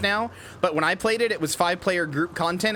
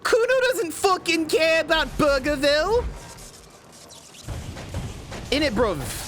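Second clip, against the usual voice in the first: Kuno character voice; 11 semitones higher than usual. Acted. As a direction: shout it like a cocky kid. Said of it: "Kuno speak to drunk Aussie".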